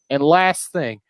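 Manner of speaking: slow, drawn-out mock briefing; retold instructor. Laser tag girl briefing families, slow imitated announcement. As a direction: imitate staff laying down rules, slowly. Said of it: "And she goes".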